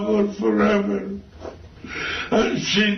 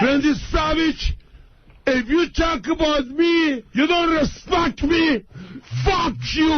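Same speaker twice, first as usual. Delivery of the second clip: angry yelling; 4 semitones higher than usual. Real, not acted. Yells at rival on phone.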